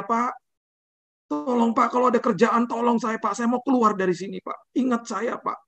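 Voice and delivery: high, pleading retelling; pleading driver. Retold or imitated. Driver begging the pastor for work, high pleading voice.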